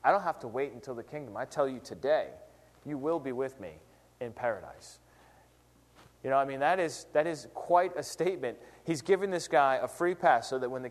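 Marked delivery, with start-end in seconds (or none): 0.0-5.0 tender promise. Retold or imitated. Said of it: "He says".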